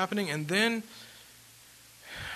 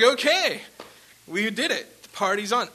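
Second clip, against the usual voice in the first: high, loud cheer; retold celebration; 6 semitones higher, 8 dB louder than usual. Singer after the showcase, celebratory cheer. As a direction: call it out high and loud, party starting.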